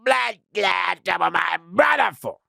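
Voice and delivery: very high, loud, slow shouted challenge; aggressive gang shout. Retold or imitated. Gang member shouting at him in the yard, loud slow shout. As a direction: bellow it across the yard. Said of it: "So he go".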